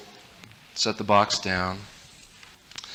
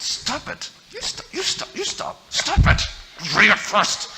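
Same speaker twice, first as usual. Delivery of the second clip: put-on high strained kid yelling stop; mock whiny yell; 11 semitones higher than usual. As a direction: shriek at brother to stop. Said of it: "I said".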